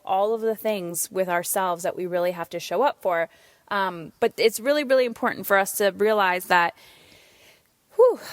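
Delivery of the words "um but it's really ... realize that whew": out of breath. Real, not acted. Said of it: "I don't know why I'm so out of breath".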